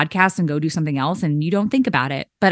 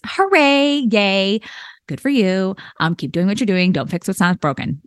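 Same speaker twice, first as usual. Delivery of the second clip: dry congratulations that sound mildly sarcastic; unintentionally sarcastic praise; a little sarcastic. Real, not acted. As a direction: cheer them on but it comes out dry. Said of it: "it did sound a little sarcastic".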